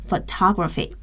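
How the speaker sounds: "photography" stressed on the second syllable, pho-TOG-ra-phy. Shown as a demonstration. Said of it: "重音也是在后面".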